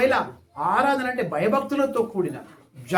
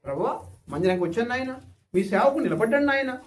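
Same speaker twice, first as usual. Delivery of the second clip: simple prayer demo; 4 dB quieter, faster than usual. Retold or imitated. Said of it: "స్తోత్రాలు ఎందుకు".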